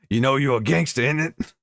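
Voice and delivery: mock London gangster accent, playfully put on; lightly hammed-up London street accent. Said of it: "I have to do an accent".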